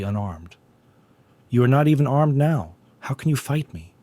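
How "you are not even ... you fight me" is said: higher and louder, taunting; calling out. A narrator's reading. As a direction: call it out from the dark, mocking. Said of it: "a voice called out from the darkness".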